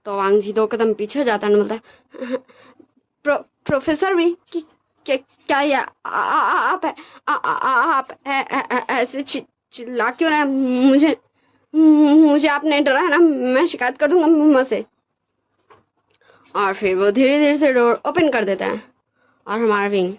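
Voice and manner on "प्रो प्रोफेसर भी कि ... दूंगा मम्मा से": high, trembling stammer with tearful breaks; stammering in fear. Retold or imitated. Wang ji to the professor behind the door, stammering and tearful. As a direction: stutter it out like a scared boy close to crying. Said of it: "अटकते अटकते, डरते डरते बोल रहा था".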